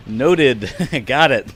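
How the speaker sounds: loud, laughing acceptance; half-laughing noted; laughing nervous okay. Real, not acted.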